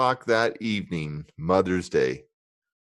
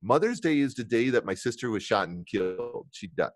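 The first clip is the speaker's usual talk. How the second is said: soft and somber; 8 dB quieter than usual. Real, not acted. Sister killed on Mother's Day.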